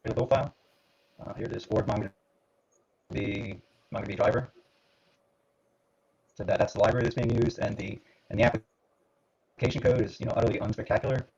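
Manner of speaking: choppy glitchy call audio; audio breaking up. Real, not acted. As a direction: voice cutting in and out online. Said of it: "your audio is breaking up a little bit".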